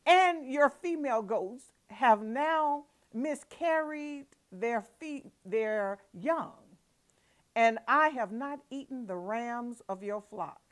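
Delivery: indignant Jacob. Acted. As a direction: plead your innocence, voice rising.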